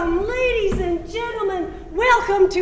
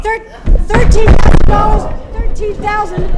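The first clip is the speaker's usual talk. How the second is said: shouting bids; 3 semitones higher, 14 dB louder than usual. Acted. Bidding frenzy peak.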